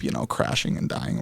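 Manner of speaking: whispered muffled ending; hand over mouth. Retold or imitated. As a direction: fade the warning to a whisper. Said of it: "I was making it muffle".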